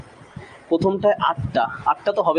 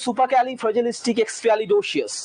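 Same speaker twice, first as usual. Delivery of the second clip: slow demo pronunciation; 3 semitones higher, much slower than usual. Shown as a demonstration. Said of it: "এটা উচ্চারণটা হচ্ছে".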